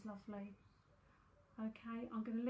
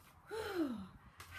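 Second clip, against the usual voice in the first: big audible sigh; 6 semitones higher than usual. Real, not acted. Finishing a reading before greeting viewers, big sigh. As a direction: let out a long breath. Resets between readings, exhales.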